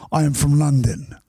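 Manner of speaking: Russian posing as a Londoner; mock Russian-accented fib. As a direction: claim it in a thick Russian accent. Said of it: "it's hard with that accent".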